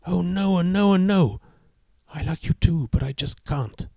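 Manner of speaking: put-on high, anxious young woman; nervous girlfriend. A narrator's reading. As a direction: plead with him, worried. Girlfriend refusing.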